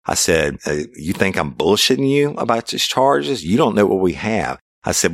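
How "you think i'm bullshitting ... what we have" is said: high-pitched, incredulous challenge; retold confrontation. Officer confronting suspect over charges, retold incredulous challenge.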